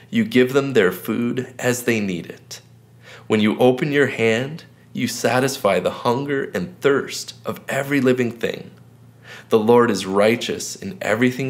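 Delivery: slow, measured reading with long pauses between verses; slow scripture reading. Acted. Pastor reads a psalm slowly to viewers for meditation, unhurried. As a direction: read each verse slowly and let it sink in. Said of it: "I'm gonna read it three times slowly".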